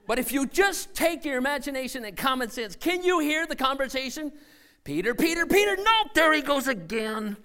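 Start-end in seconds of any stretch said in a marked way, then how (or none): 4.8-7.4 exasperated disciples. Acted. Disciples in boat react.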